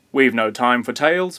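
puffing and out of breath. Acted. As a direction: puff out the words breathlessly. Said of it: "puffed Grandfather".

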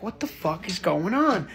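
retold bafflement, kept soft; stunned undertone. Son retells hearing crying downstairs, baffled undertone. Storyteller's stunned private reaction.

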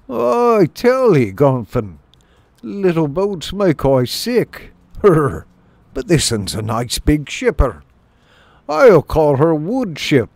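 slow country mole dialect, rising high; delighted rustic mole. Acted. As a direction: savour it slowly in a mole burr. Voices Denny the mole, delighted.

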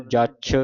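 ਜੱਛ with a tight doubled chh; tightened consonant. Shown as a demonstration. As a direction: press hard into the chh of ਜੱਛ. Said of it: "ਕੱਸ ਕੇ ਬੋਲਣਾ ਹੈ".

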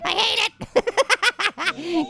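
very slow, stretched and laughing; drawn-out laughing. Pretend. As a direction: drag every word out while cracking up.

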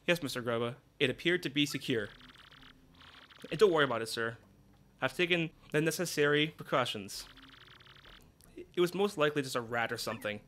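calm, dutiful assistant reporting in; Jolene's voice. Acted.

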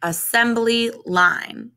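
slow, clear teacher's model of a term; model for repeating. Shown as a demonstration. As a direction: say it slowly for children to copy. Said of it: "Can you say that?".

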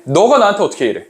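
acted-out hurt disbelief; how could you, to a close friend; mildly voiced sense of betrayal; betrayed friend, empathetic reading. Shown as a demonstration. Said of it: "이렇게 읽으면 돼요".

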